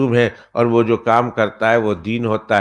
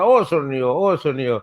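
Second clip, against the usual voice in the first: taunting call; 3 semitones higher, slower than usual. Retold or imitated. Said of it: "تانا دیتا تھا".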